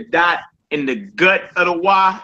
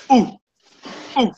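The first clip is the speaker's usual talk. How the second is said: mock punched grunt; 8 semitones higher than usual. Shown as a demonstration. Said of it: "like you got punched in your gut".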